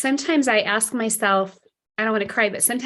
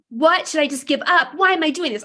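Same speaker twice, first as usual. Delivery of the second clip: high, raised exasperated questions; loud frustration; 4 semitones higher, 3 dB louder than usual. Retold or imitated. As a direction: demand answers at the top of the voice. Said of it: "I was, like, loud in the car".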